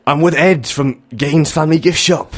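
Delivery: breezy TV presenter greeting; a hint of a chirpy Ant; Ant impression. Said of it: "I'm gonna do both".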